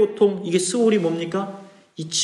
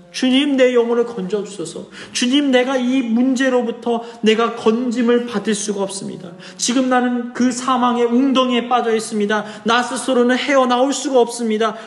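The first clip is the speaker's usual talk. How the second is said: higher-pitched plea to the Lord; pleading prayer; 4 semitones higher than usual. Acted. Preacher voices the sufferer's prayer for rescue, pleading. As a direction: pray it as an acted plea, pitched up. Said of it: "그가 어떻게 기도합니까?".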